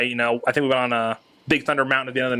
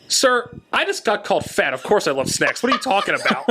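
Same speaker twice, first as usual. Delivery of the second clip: mock indignant; 6 semitones higher than usual. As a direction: play it up as a joking protest. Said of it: "And I go".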